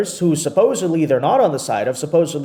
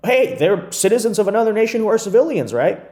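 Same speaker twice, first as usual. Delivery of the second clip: sarcastic, higher parody of the critic's line; mocking quote; 6 semitones higher than usual. Host parodying the liberal critic's argument, sarcastic higher voice. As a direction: mimic the critic to make him sound silly.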